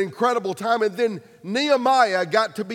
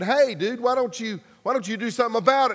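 casual king; 3 semitones higher, faster than usual. Retold or imitated. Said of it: "the king said".

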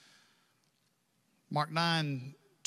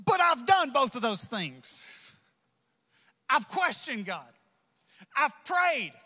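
hurting plea; 4 semitones higher than usual. Acted. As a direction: voice a believer at the end of their rope. Hurting believer confronts the pastor.

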